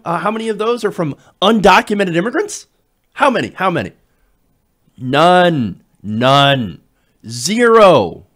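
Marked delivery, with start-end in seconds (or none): 5.0-8.3 emphatic zero. Real, not acted. Host stressing no crimes by immigrants, in a loud emphatic fall. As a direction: hit the word Zero. hard and loud, falling.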